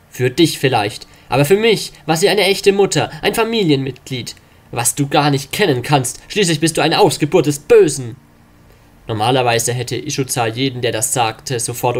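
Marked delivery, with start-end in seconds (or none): 0.1-8.2 put-on higher, tearful young voice; a hint of an angry grieving son; upset young son. Grieving son answers father.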